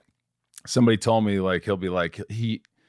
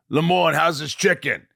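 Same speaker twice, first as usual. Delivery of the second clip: one take; 2 semitones higher than usual. Retold or imitated. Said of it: "he says".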